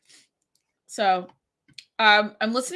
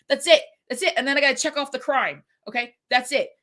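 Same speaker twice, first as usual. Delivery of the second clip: stern warning; 4 semitones higher than usual. Retold or imitated. Teacher warns with the write-up.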